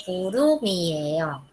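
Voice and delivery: 구름이에요 as gu-reu-mi-e-yo in one flow; linked M reading. Shown as a demonstration. Teacher repeating for students, linked. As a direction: carry the M of 구름이에요 into "mi". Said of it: "va a leer".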